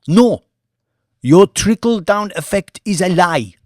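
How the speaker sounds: loud, high, cutting no; sharp rejection. A narrator's reading. Mamadou flatly rejecting Banks, loud and sharp. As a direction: slam the door on his idea.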